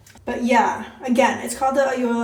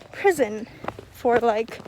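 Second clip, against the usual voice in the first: out of breath. Real, not acted. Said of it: "I'm out of breath".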